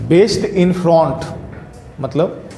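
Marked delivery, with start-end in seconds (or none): 0.1-1.2 slow dictation. Shown as a demonstration. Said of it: "B A A C D".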